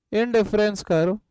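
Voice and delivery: word by word, very slow, for note-taking; slow dictation. Shown as a demonstration. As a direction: dictate each word slowly so students can write. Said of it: "आप ये heading लिखना". (धीमे-धीमे शब्द-दर-शब्द बोलकर लिखवाना)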